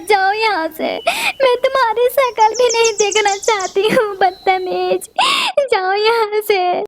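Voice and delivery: a hurt bird furiously sending the pigeon away; angry. Acted. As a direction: scold her away with mounting anger, near tears. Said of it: "तुम गुस्सा क्यों कर रही हो".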